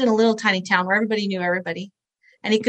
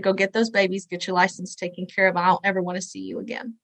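retold stern send-off; 2 semitones lower, 4 dB quieter than usual. Sheriff's parting order, retold.

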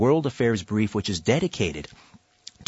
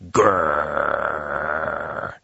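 low rolling growl like an angry dog; low dog growl, not a real word; imitated dog growl; 6 semitones lower than usual. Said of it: "yeah, just like that".

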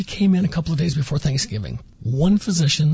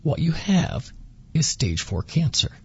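very calm; 3 dB quieter than usual. Retold or imitated. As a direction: break the news gently and steadily. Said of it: "very calmly said".

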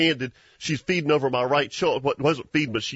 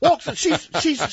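laughing; 12 semitones higher than usual. Real, not acted. Laughing while retelling the hunt.

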